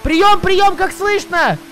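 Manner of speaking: over walkie talkie. Pretend. Calling on the found radio.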